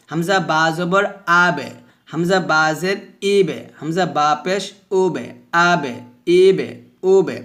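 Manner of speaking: light echo on every final b; measured recitation with thin bounced endings; thin qalqalah drill. Shown as a demonstration. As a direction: chant the spelling, bouncing each b in আবে, ইবে, উবে. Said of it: "কলকলা পাতলা হবে এভাবে".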